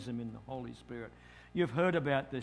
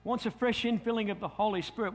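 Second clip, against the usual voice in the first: preacher's call; 6 semitones higher, 3 dB louder than usual. Retold or imitated. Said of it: "and he says".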